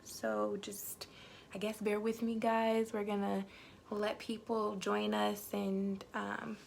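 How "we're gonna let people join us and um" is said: talking around a lollipop; mouth full. Real, not acted. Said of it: "excuse me having that lollipop in my mouth".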